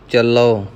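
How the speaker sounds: ਚੱਲੋ with a separate short u after l, cha-la-u; spelt-out ending. Shown as a demonstration. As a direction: sound the final vowel of ਚੱਲੋ on its own. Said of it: "ਚੱਚਾ ਲੱਲਾ ਤੇ ਊੜੇ ਔਂਕੜ". (ਚੱਲੋ ਵਿੱਚ ਲੱਲੇ ਪਿੱਛੋਂ ਊੜੇ ਨੂੰ ਔਂਕੜ)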